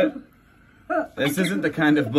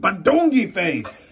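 silly slow nonsense; 4 semitones higher than usual. Acted. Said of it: "make silly sounds like".

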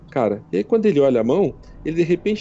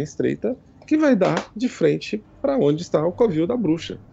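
lightly raised, teasing goddess; 3 semitones higher than usual. Acted. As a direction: speak as the amused goddess Timora, a bit higher. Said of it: "aí ela fala assim". (deusa Timora falando com voz levemente aguda e brincalhona)

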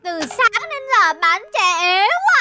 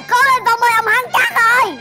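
cheering; 4 dB louder than usual. Acted. Fans cheering.

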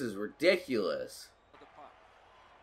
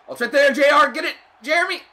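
high, loud yell urging the player on; excited shout; 12 semitones higher, 10 dB louder, faster than usual. Real, not acted. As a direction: scream for him to bury it. Chance right in front of net.

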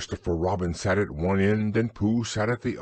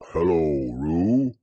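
low, calm Pooh reply; plain Pooh; 4 semitones lower, 4 dB louder, slower than usual. A narrator's reading. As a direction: answer simply and steadily. Pooh answers Roo.

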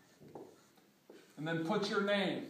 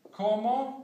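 "Como" higher and louder, stress on the first O; 5 semitones higher, 7 dB louder than usual. Shown as a demonstration. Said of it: "with an accent on that O".

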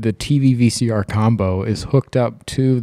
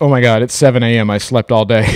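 mock panic; 2 semitones higher, 7 dB louder, faster than usual. Panicked waking in hotel.

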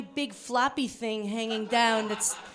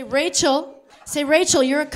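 mock insult called out; louder demo line; 6 dB louder than usual. Shown as a demonstration. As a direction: raise the voice on it. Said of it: "Say, say".

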